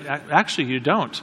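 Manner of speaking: puzzled, hesitant reply; confused. Retold or imitated. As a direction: lightly imitate her confused admission. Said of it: "She got a confused look".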